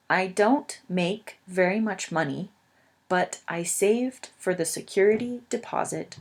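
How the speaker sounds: measured learner-friendly story reading; careful read-aloud. Acted. Teacher reading a stressed renter's story to English learners, careful read-aloud. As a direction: read each phrase carefully, pausing between sentences.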